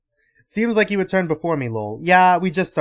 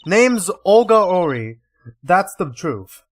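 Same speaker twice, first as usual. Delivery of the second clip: slow, louder mock Russian accent, drawn out; 5 dB louder, slower than usual. Streamer reading the witness line in mock Russian accent. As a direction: lean into a fake Russian accent, slow and loud. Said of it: "She doesn't even have a Russian accent".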